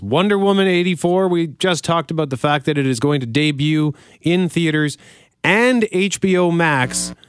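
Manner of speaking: punchy radio teaser, key words stretched; polished broadcast link; radio host read. Acted. Scripted radio segment intro.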